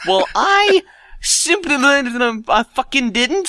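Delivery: slow, high deadpan bat; squeaky clicking bat. Acted. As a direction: drag out the punchline as a bat. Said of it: "said the bat".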